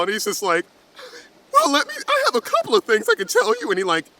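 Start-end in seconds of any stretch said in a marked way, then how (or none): 1.5-3.7 eager dad. Acted. Eager dad starts advice.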